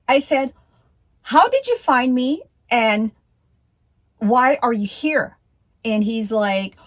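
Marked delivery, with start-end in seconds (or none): 1.2-5.4 high, loud, panicked questions at the stranger; alarmed demand. Retold or imitated. Woman confronting a strange man at her door, alarmed and loud. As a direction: demand answers like your heart is racing.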